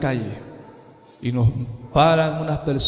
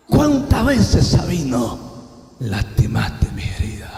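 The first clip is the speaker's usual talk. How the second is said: slow, measured divine reproach; solemn heavenly voice reproaching a son; voice from the radiance; slower than usual. Retold or imitated. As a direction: lay out each reproach slowly, with long pauses. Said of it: "aquella voz sigue hablando".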